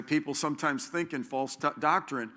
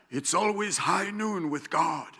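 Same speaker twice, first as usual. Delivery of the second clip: put-on German accent; 2 semitones higher than usual. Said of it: "German cowboy".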